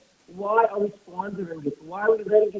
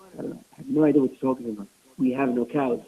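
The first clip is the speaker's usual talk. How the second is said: puzzled wife; 9 semitones lower, faster than usual. Retold or imitated. Rabbi's wife confused, denies.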